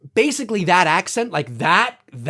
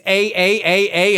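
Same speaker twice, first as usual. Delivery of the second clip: mock Canadian "eh"; 3 dB louder, slower than usual. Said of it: "every five seconds, it's".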